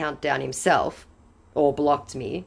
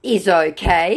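scammer's voice; 4 semitones higher, 7 dB louder, slower than usual. Retold or imitated. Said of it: "he informs me".

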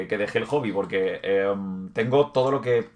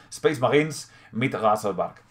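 German reading; slower than usual. Shown as a demonstration. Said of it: "En alemán".

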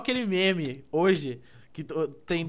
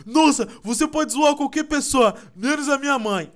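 mock angry kid; 9 semitones higher, 7 dB louder than usual. The offended boy in the meme, higher mock indignation. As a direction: huff like an offended schoolboy. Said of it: "o moleque fica bravo e fala assim".

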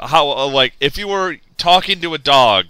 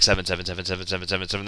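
spamming sevens; 8 semitones lower, 13 dB quieter, much faster than usual. Retold or imitated.

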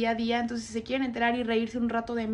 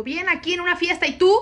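higher, louder forced cheer; fake cheerful; 6 semitones higher, 7 dB louder than usual. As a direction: pretend everything is fine. Fakes being fine on phone.

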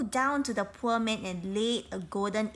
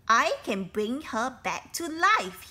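calling down; 2 semitones higher, 5 dB louder than usual. Acted. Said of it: "he called down to them".

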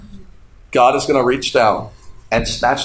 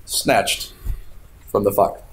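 hushed repeat; 7 semitones lower, 6 dB quieter, slower than usual. Acted. Repeated key phrase, hushed.

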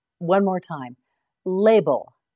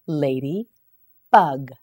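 slow model word; 3 semitones lower, much slower than usual. Shown as a demonstration.

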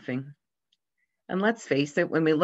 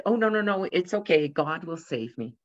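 calm; 2 semitones higher than usual. Retold or imitated. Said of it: "the preacher calmly said".

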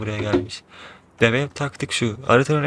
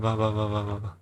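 hushed mumble while hiding; whispering while hiding; 6 dB quieter than usual. Real, not acted.

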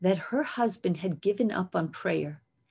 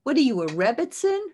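louder, fast sneering put-down; mocking scoff; 4 semitones higher, 6 dB louder than usual. A scoffer belittles a woman's mission, loud mocking sneer. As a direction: scoff at her dream, quick and loud. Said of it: "Don't let anybody say".

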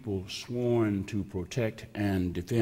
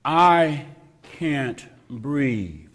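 gasped plea; 3 semitones higher, 6 dB louder, much slower than usual. Retold or imitated. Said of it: "Eric Garner gasped".

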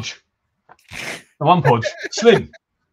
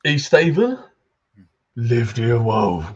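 put-on townsman in a Cockney accent, gruff and chatty; grumbling Cockney local greeting a stranger; Cockney NPC. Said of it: "try and sound a Cockney".

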